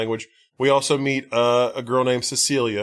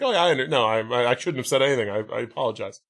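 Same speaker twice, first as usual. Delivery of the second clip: painfully polite; faster than usual. Retold or imitated. Rejected friend apologizes to bridesmaid, painfully polite. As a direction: stammer and back down politely. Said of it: "so painfully Britishly polite".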